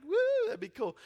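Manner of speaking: a Greek fan thrilled at meeting Jesus, squealing; excited woo. Retold or imitated. A pilgrim gushing with excitement, high squeal. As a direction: pitch leaps up on the woo. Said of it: "he's like".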